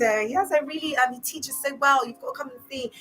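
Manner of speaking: high, gushing mock recruiter voice; hammed-up sugary church promoter. Cult promoter pitching church to ex-member, high gushing mock.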